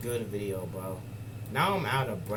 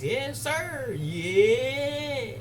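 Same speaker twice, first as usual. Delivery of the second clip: hyped high yes sir; 11 semitones higher, 4 dB louder, much slower than usual. Real, not acted. Hyped about wings.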